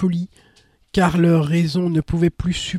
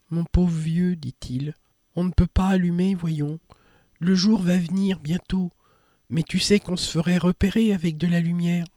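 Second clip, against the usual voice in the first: very gentle voice. Acted. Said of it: "d'une voix très douce".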